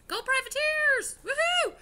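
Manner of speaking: loud, high college cheer. Real, not acted. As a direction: whoop it up for the team. Cheering for her old university.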